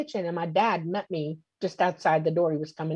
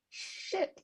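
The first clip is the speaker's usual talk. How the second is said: breathless whispered curse, much softer; 12 semitones higher, 13 dB quieter than usual. Retold or imitated. Frozen, staring at the two beings, a soft whispered curse.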